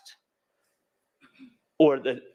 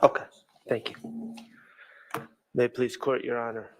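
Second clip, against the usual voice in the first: speaking through a face mask; muffled behind a mask. Real, not acted. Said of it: "Can you hear me okay with this mask?".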